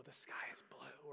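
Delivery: soft unvoiced whisper. Teacher whispering a test phrase to a child, unvoiced whisper. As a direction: breathe the words like a hearing test. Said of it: "she whispers".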